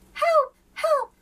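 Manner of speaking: high, loud panicked yelling; frantic cry for help. A narrator's reading. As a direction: shout for help in alarm. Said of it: "cried the page".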